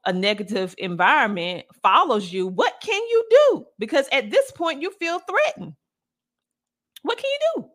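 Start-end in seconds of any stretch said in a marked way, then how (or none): 2.5-7.7 a high, pleading cry of frustration; exasperated outcry. Real, not acted. She asks the audience, voice rising high in exasperation. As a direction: pitch jumps way up on what can you do. Exasperated over the woman's detention.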